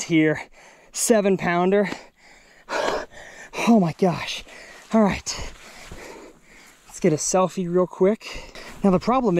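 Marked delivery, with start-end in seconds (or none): none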